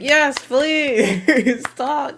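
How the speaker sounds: high, loud, thrilled begging; excited plea. Retold or imitated. Fan telling her co-host how she cheered them on, squealing. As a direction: beg them eagerly, squealing. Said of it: "I'm like".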